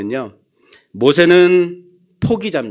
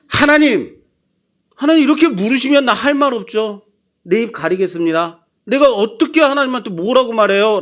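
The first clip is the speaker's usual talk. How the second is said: higher, quick defiant protest; Job protesting; 5 semitones higher than usual. Acted. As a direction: talk back with wounded pride. Job voiced protesting to God.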